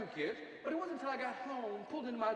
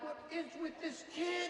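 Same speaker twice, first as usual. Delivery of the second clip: annoyed; 8 semitones higher, 3 dB quieter than usual. Retold or imitated. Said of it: "I'm like".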